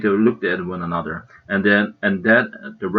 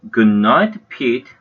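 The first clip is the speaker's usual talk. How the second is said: firm, louder closing Transylvanian-free goodnight; with great finality; 4 dB louder, much slower than usual. Acted. Mom closing bedtime for the boys, firm and final. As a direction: end the discussion, no more arguing. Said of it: "said with a great finality".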